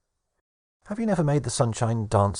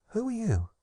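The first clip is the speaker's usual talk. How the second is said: put-on girlish high question; 13 semitones higher, 4 dB quieter than usual. Pandora asks voice in box.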